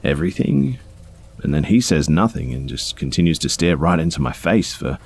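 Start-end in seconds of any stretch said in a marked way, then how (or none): 0.0-0.8 high-pitched, uncertain echo; awkward questioning. A narrator's reading. Clerk checking with a menacing customer, awkward high question. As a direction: ask it back high, as if unsure he means it. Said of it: "I awkwardly laugh at first and say".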